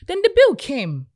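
laughing through the story. Real, not acted. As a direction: giggle out the punchline. Bill arrives, laughing retelling.

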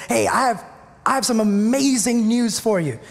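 to his friend Sonia about new housing, mildly excited. Retold or imitated. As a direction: imitate himself bursting with good news, mildly. Texting friend big news.

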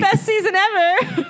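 high, slow sarcastic gush; sarcastic praise, drawn out high. Retold or imitated. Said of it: "actors basically shitting on the season".

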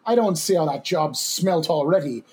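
put-on a light, half-hearted coarse Irish accent. Reading a body snatcher's quote to his cohost in a mild coarse Irish accent. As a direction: read the quote in a mild rough Irish brogue. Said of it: "my best coarse Irish accent".

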